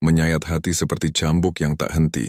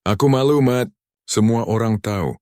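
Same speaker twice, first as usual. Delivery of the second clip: high, loud shamed wail; anguished cry; 7 semitones higher, 3 dB louder than usual. A narrator's reading. Wife confronting cheating husband, anguished.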